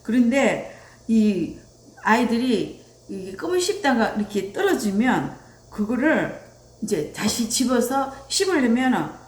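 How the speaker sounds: normal talking voice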